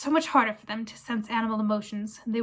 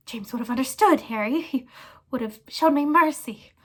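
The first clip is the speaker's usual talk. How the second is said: squeaky plea; 3 semitones higher, 5 dB louder than usual. Acted. Pettigrew pleads to Harry.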